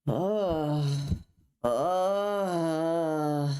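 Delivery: drawn-out mock groan of a mom acting sick; mom's fake moaning. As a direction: ham up a mom pretending to feel ill. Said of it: "my mom came in and was like".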